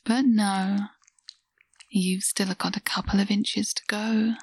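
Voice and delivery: intimate whisper. Acted. Teasing partner whispering to her lover. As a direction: murmur it right into her ear.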